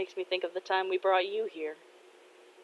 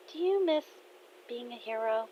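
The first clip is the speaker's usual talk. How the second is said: tentative question; 5 semitones higher, 6 dB quieter than usual. Acted. Daughter hesitantly asks father.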